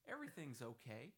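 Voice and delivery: lightly voiced upbeat Steve Gordon; Steve Gordon impression. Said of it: "my legitimate Steve Gordon impression".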